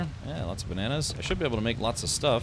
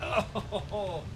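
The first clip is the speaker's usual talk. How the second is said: groaning while stretching; high strained stretch groan; 4 semitones higher, much slower than usual. Real, not acted. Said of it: "stretching the legs".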